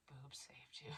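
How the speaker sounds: whispered joke, barely voiced; whispered aside. Real, not acted. Joking aside to her audience, whispered. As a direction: slip in a sly whisper.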